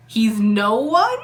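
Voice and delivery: slow, disbelieving echo of He's no one; stunned, questioning rise on one; incredulous. Real, not acted. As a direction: repeat He's no one as if you can't believe it.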